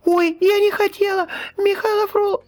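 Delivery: put-on frightened girl. A narrator's reading. Scared servant girl pleading with the boy, squeaky.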